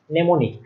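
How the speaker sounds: mnemonic set apart as "ne-mo-nik"; corrected mnemonic pronunciation. Shown as a demonstration. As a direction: demonstrate mnemonic as "nemonik". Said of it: "আমি কয়েকবার ভুল উচ্চারণ করছি".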